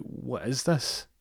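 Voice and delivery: high, slow incredulous mock question; appalled girlfriend. Girlfriend appalled by his behaviour.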